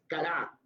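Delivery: kará with the accent on the final A; stress on last syllable. Shown as a demonstration. Teacher showing students the Hebrew word, final-syllable stress. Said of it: "con tilde en la A".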